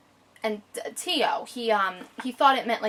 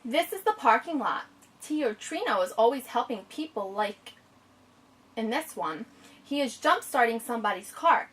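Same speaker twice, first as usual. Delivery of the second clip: story reading. Acted. Reads the picture book aloud.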